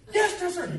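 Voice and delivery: sounding off. Retold or imitated. Recruit sounds off again.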